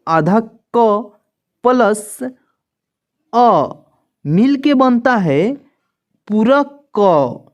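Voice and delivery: आधा क and पूरा क said slowly and deliberately; slow explanation. Shown as a demonstration. Teacher slowly building क from its parts. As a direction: spell it out slowly for beginners. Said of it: "जैसे मान लीजिए".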